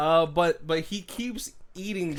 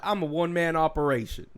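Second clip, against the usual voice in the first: lightly imitated Western lawman; a hint of an Old West loner; Jeff Bridges. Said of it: "Jeff Bridges is like".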